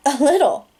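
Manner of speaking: put-on a girl scolding her drunk date, angry; mad. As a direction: tell him off, angry. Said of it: "Cherry looked mad".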